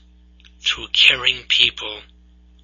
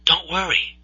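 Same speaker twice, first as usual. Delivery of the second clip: higher and much softer, tender; gentle reassurance; 6 semitones higher, 7 dB quieter than usual. Acted. The Lord comforting Moses, soft tender reassurance. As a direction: soothe him like a frightened child. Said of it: "The Lord's answer".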